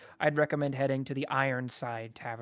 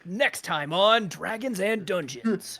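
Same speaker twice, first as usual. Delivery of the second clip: mock announcer; 2 semitones higher than usual.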